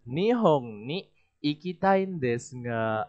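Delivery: slow Nihon ni ikitai desu ga with a trailing, unfinished tune; slow, hanging open at ga; demo intonation. Shown as a demonstration. Teacher showing students the intonation to copy. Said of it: "Dengan intonasi yang seperti ini".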